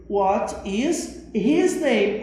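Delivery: slow, deliberate English example; slow model sentence. Shown as a demonstration. Teacher showing students the English question, slowly. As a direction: lay out each word slowly for learners. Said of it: "Eu diria".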